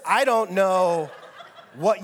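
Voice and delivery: slow, chuckling as she speaks; light real laughter in the voice; amused, laughing aside. Real, not acted.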